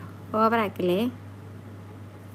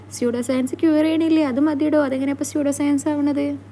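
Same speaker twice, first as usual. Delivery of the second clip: higher and louder, heated objection; indignant protest; 4 semitones higher, 5 dB louder than usual. Real, not acted. Defending homeopathy against pseudoscience jibe, indignant and loud. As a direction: push back hard at the insult.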